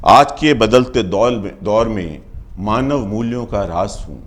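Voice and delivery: measured first-person verse with pauses; poem recitation. Acted. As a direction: declaim it line by line as History.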